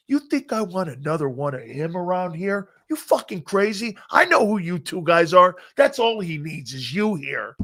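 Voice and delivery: mock an irate coach chewing out a player; retold angry coach. Coach turning down the player he was to sign, retold angrily. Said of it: "Buddy was so fucking pissed at Jerome".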